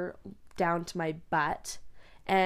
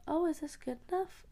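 hairdresser voice; 9 semitones higher, 4 dB quieter than usual. Retold or imitated. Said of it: "The hairdresser is like".

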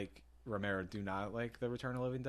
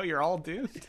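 higher, raised doom warning; slow ominous raspy drawl; 7 semitones higher, 4 dB louder, slower than usual. Retold or imitated. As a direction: play the crazy prophet warning everyone. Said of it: "What one are you gonna pick".

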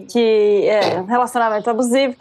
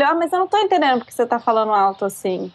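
low-key, quickly delivered mock incomprehension; unruffled passive-aggressive tone; 3 semitones lower, faster than usual. Woman quoting her ex mid-argument, unruffled and passive-aggressive. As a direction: feign not understanding, without raising the voice. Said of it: "pesadíssimas num tom instável".

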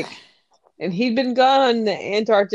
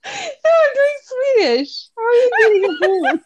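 high, laughing protest; 11 semitones higher than usual. Real, not acted. Co-host defending the accent attempt, real helpless laughter. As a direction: object through helpless giggles, pitch shooting up.

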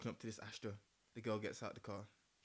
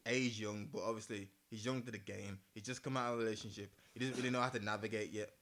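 fireside storytelling; 2 semitones lower than usual. Acted. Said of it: "Get my storytelling voice on".

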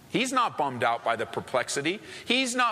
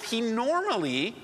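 "normally" stretched out and pitched up; stress on normally; 6 semitones higher than usual. Real, not acted. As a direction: lean hard on the word "normally". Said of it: "and I emphasize the word normally".

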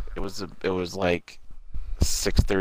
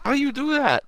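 mock yelling boyfriend. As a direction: imitate an outraged man shouting over text. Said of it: "He was yelling".

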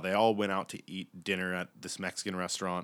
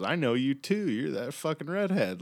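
high-pitched mock stoner recognition; pitched-up, spaced-out accusation; tripping out; 7 semitones higher than usual. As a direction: imitate a man on acid pointing someone out. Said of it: "and he's tripping out".

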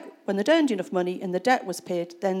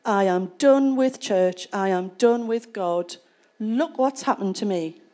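slow, louder defiant outburst; fed up; 3 dB louder than usual. Retold or imitated. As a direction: spit out the words of someone quitting on God. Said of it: "people in that situation would be like".

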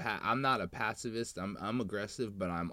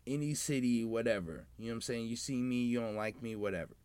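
frat bro; 2 semitones higher than usual. Retold or imitated. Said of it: "kinda making a P S A".

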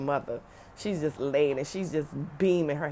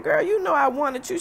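higher, slightly louder motherly protest; voicing mom; 13 semitones higher, 4 dB louder than usual. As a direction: play mom brushing off the idea. Mother voiced in retold phone call.

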